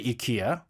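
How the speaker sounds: "ikea" as EE-KAY-uh; "ikea" the Korean way; Korean pronunciation. Shown as a demonstration. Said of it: "in Korea, they say".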